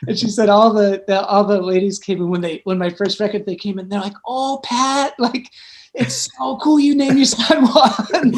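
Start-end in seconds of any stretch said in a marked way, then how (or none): 4.3-8.3 high, gushing coo with a laugh in it; mock-adoring, laughing squeal; imitated delight. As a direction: gush like the admiring ladies, drawing it out. Retelling the ladies' delighted reaction.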